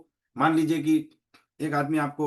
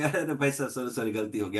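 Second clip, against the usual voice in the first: smiling apology; 5 semitones lower, 4 dB quieter than usual. Retold or imitated. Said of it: "आप smile करिए".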